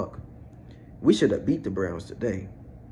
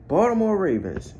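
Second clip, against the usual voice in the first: disbelieving call-out, pitched up; 8 semitones higher, 3 dB louder than usual. Real, not acted. Fan addressing the Baltimore Ravens, calling out. Calling out team after bad loss.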